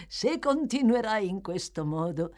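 lightly voiced pleased old man, slowing down; a sly old teacher praising his pupil; old Fagin voice. Fagin praising Oliver after the pickpocket test, lightly voiced pleased old man.

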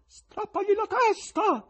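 high, loud, slow stern call; stern heckle. A narrator's reading. Stern voice from the gallery, loud slow demand. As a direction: shout the verdict down from the gallery. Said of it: "disse una voce severa dal loggione".

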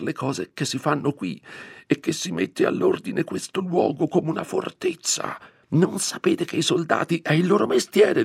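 high, tense, fretful scolding; a scared curate lecturing about soldiers, voice rising high; frightened scolding priest. Acted. Priest scolding his housekeeper about soldiers, high and anxious. Don Abbondio scolding Perpetua.

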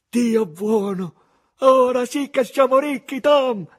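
put-on loud, high, amazed boyish cry; a boy stunned by sudden riches; overjoyed Huck. A narrator's reading. Huck at the treasure chest with Tom: ecstatic shout.

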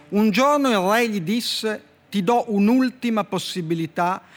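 measured storyteller reading with slow, deliberate endings; dry literary fable reading; story reading. Acted. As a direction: read the fable like a deadpan poet. Poet reads his fable aloud.

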